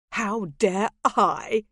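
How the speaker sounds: slow, drawn-out bitter echo. Acted. The lord throws her words back, slow and bitter. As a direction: stretch it out, mocking her words.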